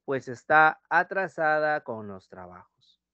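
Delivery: está alargado y lento; dictado lento. Shown as a demonstration. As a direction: dicta despacio para que copien. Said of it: "Marta come rápido". (dictado pausado)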